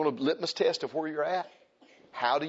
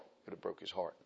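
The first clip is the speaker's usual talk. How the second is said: softer, fading to a hush; fading quiet; 7 semitones lower, 12 dB quieter, faster than usual. Acted. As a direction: let it die away. Fading repeat.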